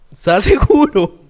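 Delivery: high, slow incredulous question through a laugh; acted doubt, breaking into laughter; laughing disbelief. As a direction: question it with an amused mock doubt. Acting out doubt at God's order.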